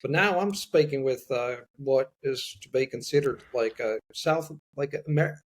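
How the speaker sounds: lightly done Texas-style Southern accent; Southern American accent. Shown as a demonstration. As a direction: ease into a mild American Southern accent on request. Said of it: "let's say American English from the South".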